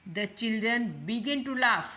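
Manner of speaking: slow, deliberate teacher dictation; slow example reading. Shown as a demonstration. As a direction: read the model sentence slowly, word by word. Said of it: "teacher reads example sentence".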